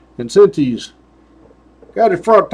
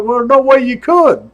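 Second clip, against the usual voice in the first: higher lightly voiced lecture; a hint of trooper lecturing the caught biker; 5 semitones higher than usual. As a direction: lecture the rider like a stern trooper. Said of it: "I'm like".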